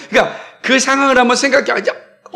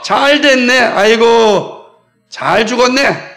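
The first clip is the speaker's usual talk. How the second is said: gloating mockery; 3 semitones higher, slower than usual. Bystanders taunt the one begging for help, gloating. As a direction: rub it in slowly, mock pity on the sigh. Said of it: "오히려 놀리는 겁니다".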